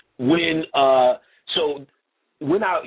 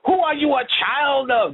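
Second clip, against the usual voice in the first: high, put-on African English accent imitating a church elder; mock African English accent; 11 semitones higher than usual. Teller imitating a house elder's fake African English accent. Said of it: "They all had that same African voice".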